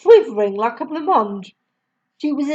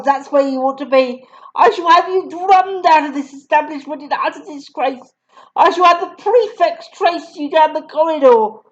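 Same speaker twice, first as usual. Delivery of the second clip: higher, louder scolding; furious tirade; 5 semitones higher, 3 dB louder than usual. Acted. Headmistress berating Matilda, higher and louder. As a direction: pile the insults on.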